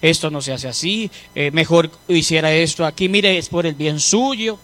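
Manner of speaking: soft gentle advice to a son; gentle counsel. Shown as a demonstration. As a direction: talk to the son kindly and quietly. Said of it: "le habla de buena manera".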